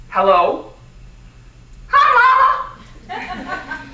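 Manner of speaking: hope too hard that she's glad to hear you; eager hello. Retold or imitated. Calling her mother after twelve years, nervous eager hello.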